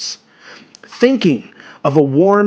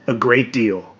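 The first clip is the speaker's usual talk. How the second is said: ordinary delivery, nothing marked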